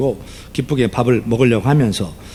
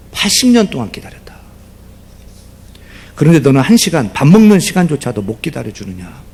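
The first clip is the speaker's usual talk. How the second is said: a touch louder, solemn rebuke; voice of the Spirit; 6 dB louder than usual. Retold or imitated. The Spirit rebuking the deacon, solemn and a little louder. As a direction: speak as God gently rebuking. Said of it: "성령께서 이런 깨달음을 주시더래요".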